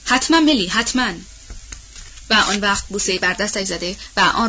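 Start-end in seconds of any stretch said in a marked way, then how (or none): 0.0-0.7 حتماً pushed out higher and louder, firm; firm assurance. A narrator's reading. Scarlett firmly promising the dying Melanie, firm and louder. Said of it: "با صدای محکم گفت". 0.7-1.1 حتماً repeated quieter, settling the promise; softer firm echo. A narrator's reading. Scarlett repeating her promise to Melanie, softer firm echo. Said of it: "با صدای محکم گفت".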